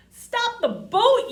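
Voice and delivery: sudden high panicked yell. A narrator's reading. Artie yells in panic to stop the ship, loud high yell. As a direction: scream it out to stop the boat. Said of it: "yells Artie".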